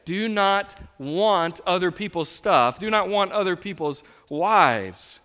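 slow, weighted commandment; stress on not. Real, not acted. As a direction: lean on not. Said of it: "reading commandment slowly".

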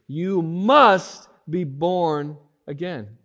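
"You must be born again" slow, loud, every word weighted; booming declaration of the verse; loud proclamation. Acted. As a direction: thunder it out slowly. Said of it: "he said this".

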